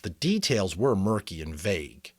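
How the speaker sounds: steady read-aloud storytelling voice; story narration. A narrator's reading. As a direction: read the chapter like a bedtime novel. Reads novel chapter aloud.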